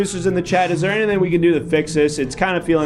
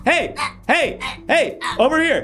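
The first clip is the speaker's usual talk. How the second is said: soothing; 10 semitones higher than usual. Acted. Calming a panicking co-performer.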